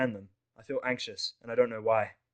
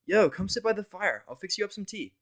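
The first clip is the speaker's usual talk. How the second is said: Vinyl's voice; 10 semitones higher, 7 dB louder than usual. Acted. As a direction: coax him over to the fire. Vinyl invites him over.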